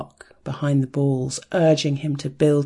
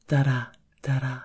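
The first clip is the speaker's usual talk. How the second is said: "da-da, da-da" chanted faster like a racing pulse; quickening heartbeat; faster than usual. Acted. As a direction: speed up with the pulse. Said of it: "The increase in speed".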